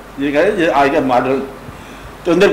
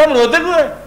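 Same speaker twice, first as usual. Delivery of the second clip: concerned question; 10 semitones higher than usual. Retold or imitated. Caravan leader asks weeping boy.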